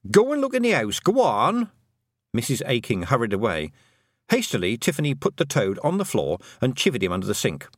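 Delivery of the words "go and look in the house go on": high, urgent command from a frantic mother; frantic high-pitched urging; panicky order. A narrator's reading. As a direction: send them off searching, pitch well up.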